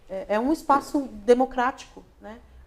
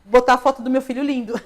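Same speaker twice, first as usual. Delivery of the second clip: words bubbling with laughter, a bit louder; laughing; 2 semitones higher, 9 dB louder than usual. Real, not acted. Laughing as she admits to the host she posts her son. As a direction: laugh through the line about the cute son. Joking about posting son photos.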